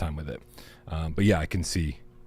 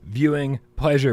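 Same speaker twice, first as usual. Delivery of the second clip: show intro; 2 semitones higher than usual. Acted. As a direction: kick off the live show with punch. Show intro at full energy.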